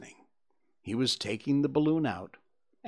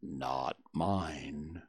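proudly; 7 semitones lower, 7 dB quieter than usual. A narrator's reading. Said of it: "said Eeyore proudly".

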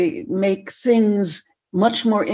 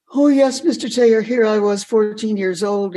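louder, higher keen reply; eager young self; 3 semitones higher, 4 dB louder than usual. Retold or imitated. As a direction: answer a mentor eagerly. Retold eager teenage self replying.

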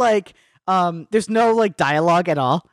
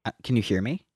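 faint, broken-up call audio; fading in through static; 10 semitones lower, 4 dB quieter, faster than usual. Real, not acted. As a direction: voice dropping out over a bad connection. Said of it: "I think you're frozen".

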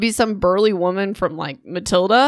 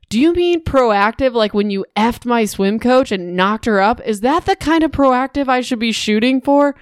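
furious retort; 4 semitones higher than usual. Retold or imitated. Daughter confronting her cheating father, high and cutting. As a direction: throw it back at him, pitched up and sharp. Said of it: "Aubrey says".

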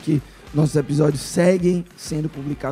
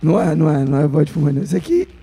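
rough, strained hoarse voice; 2 semitones higher than usual. Real, not acted. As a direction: talk through a hoarse, affected throat. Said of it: "Esse aqui não é a minha voz".

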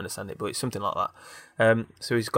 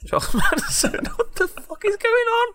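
high incredulous laugh through the words; laughing disbelief; slower than usual. Real, not acted. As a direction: squeal it out in shocked laughter.

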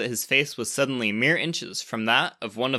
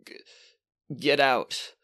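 croaked; slower than usual. Acted. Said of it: "And then Alexander croaked".

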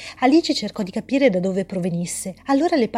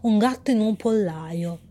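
mysterious voice. Acted. Mysterious voice answers Alice.

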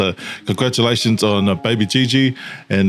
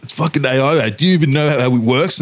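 retold mock outburst; 5 semitones higher than usual. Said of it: "After I responded".

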